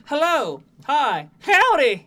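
hello to howdy, drifting into a Southern drawl; accent demo. Shown as a demonstration. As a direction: slide from New York into Southern. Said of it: "like New York English".

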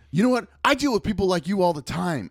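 acted-out irritated retort; retold exasperation. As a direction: imitate a worker losing patience. Angry worker snapping back.

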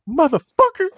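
high, loud curse breaking into laughter; mock outrage through laughter; imitating exasperated partner. Wrestler mimicking partner he caught, high laughing curse. Voices partner cursing at him.

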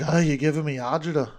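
loud, quick New York kvetching; New York accent. Acted. Host showing slang for heartburn, exasperated New York accent. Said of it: "I'm doing the New York accent".

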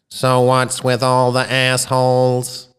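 slow, stiff machine voice; robotic voice. Acted. The alien computer repeats its message to the shocked crowd, robotic and slow. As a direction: intone it like a computer. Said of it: "the robotic voice announced".

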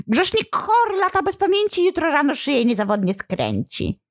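shrill-pitched cringing devil; high demon voice. Acted. Demon reluctantly answering the priest, high-pitched. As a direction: squeak it out like a cornered imp.

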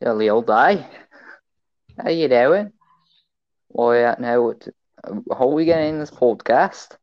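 light put-on British accent; mock-British chat. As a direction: play at being a chatty Brit. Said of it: "It's just a British accent".

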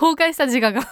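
amused outburst breaking into laughter; laughing. Real, not acted. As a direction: laugh while confessing it. Laughing at own past breakdown.

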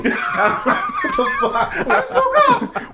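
very high, slow, laughing squeal; squeaky mock protest. Son acting out his shocked reply to mom's scolding, very high. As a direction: whine it like a kid just woken up.

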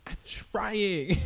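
whisper. Real, not acted. Whispered aside after mom quote.

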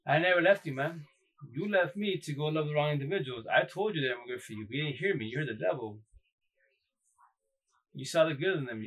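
lightly voiced God scolding gently; God's voice.

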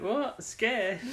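high, squeaky disbelief; incredulous. Retold or imitated. Sarah can't believe the Doctor pities the monster, squeaking in disbelief.

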